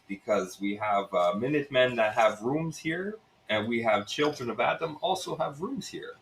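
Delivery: Russian innkeeper airing his troubles; Russian accent. Acted. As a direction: voice a Russian bar owner with a lilting accent. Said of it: "it's Russian".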